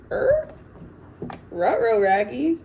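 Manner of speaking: loud, high cartoon-dog "Ruh-roh, Raggy"; Scooby-Doo quip. Scooby-Doo quip at a rude comment.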